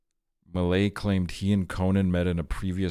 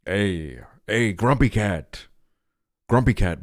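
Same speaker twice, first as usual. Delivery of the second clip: calling out; 5 dB louder, slower than usual. Real, not acted. Greeting a famous cat picture.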